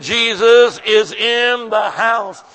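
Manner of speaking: slow, loud, drawn-out proclamation; Jesus is in the house, shouted slowly. Shown as a demonstration. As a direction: shout it out, stretching every word. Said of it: "I said".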